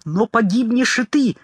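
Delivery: shrill panicked squeal; shrieked. Acted. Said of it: "Рэмбок завизжал".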